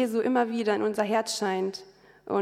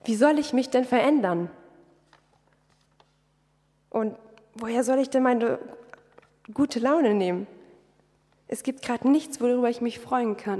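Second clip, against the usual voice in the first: reproachful; 2 semitones higher than usual. Retold or imitated. Woman asking God how to change, mildly reproachful. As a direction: ask with a hint of accusation. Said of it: "fragte ich ihn vorwurfsvoll".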